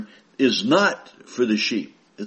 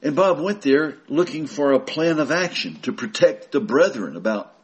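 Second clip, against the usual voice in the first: usual speaking voice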